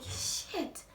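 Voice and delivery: a soft shocked whisper to herself; whispered curse. Retold or imitated. Realising what her boyfriend really is, whispering a curse. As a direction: breathe the word out, no voice. Learning boyfriend's criminal past.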